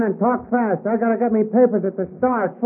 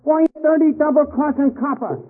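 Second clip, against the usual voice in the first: raised, heated threats at the captain; angry outburst; 3 semitones higher than usual. Acted. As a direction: spit it out, betrayed and furious. Tricked youth lashes out at captain.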